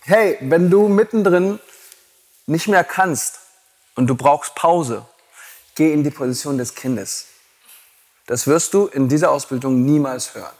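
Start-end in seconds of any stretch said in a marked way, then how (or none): 0.0-7.3 imitating a gentle yoga teacher. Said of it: "die meisten Yoga-Lehrer sagen".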